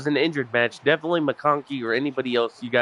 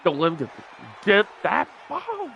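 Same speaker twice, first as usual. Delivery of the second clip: urgent pleading; 3 semitones higher than usual. Real, not acted. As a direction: beg the defender to stop him. Pleading as play unfolds.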